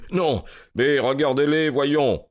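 high-pitched, insistent exclamation; urgent cry. A narrator's reading. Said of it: "cria Holmes". (cri pressant, voix haute)

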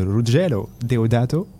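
a light put-on Italian accent on the name; mock Italian accent. Shown as a demonstration. Host naming the Italian director in a playful mock Italian accent. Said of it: "c'est mon petit accent italien".

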